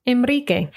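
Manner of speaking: Enrique as en-REE-keh, rolled r; Spanish version. Shown as a demonstration. Teacher contrasting names between languages, Spanish Enrique. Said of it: "I'll read the Spanish version".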